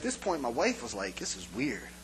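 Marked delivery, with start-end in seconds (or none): 1.2-1.9 low, soft aside to a spouse; quiet, low-pitched private remark; muted aside. Retold or imitated. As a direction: imitate a wife quietly puzzled. Wife's aside to husband.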